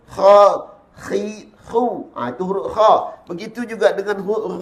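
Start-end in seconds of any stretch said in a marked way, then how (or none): 0.1-2.1 Kha, khi, khu with thick kha, tongue root lifted; thickened letter. Shown as a demonstration. Teacher drills the letter kha, thickened demo. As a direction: hit Kha hard, then khi and khu. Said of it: "tebalkan huruf tersebut".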